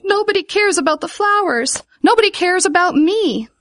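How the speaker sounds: high, loud wail of self-pity; upset wailing. A narrator's reading. Vivian flung down on the grass, wailing high. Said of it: "began to cry".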